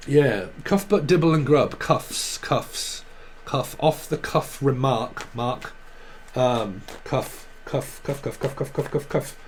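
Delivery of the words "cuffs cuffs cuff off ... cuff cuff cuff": soft whispered repeating; whispered muttering. Real, not acted. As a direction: whisper it over to yourself. Muttering a repeated word to herself.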